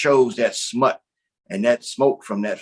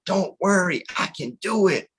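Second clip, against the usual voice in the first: lightly voiced small spider, higher; a small creature's higher-pitched voice; little water spider; 6 semitones higher than usual. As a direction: reassure them as the tiny spider. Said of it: "A little s-, water spider said".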